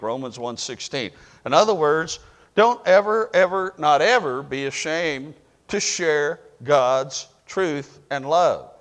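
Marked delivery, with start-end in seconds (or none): 1.5-8.7 preaching exhortation. Real, not acted.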